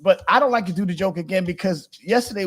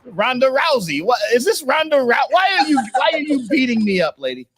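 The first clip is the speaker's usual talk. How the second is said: mock panic; 8 semitones higher than usual. Acting out massage beating.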